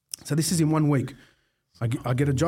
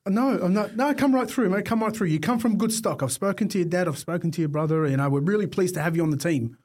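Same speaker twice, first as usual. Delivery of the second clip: a raised, lightly voiced boss welcoming the new kid; 4 semitones higher than usual. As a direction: greet him like a hearty manager.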